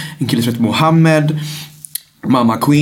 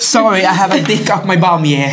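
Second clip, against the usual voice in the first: higher mock-British apology; polite British; 5 semitones higher than usual. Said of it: "Också så här på artigt brittiska".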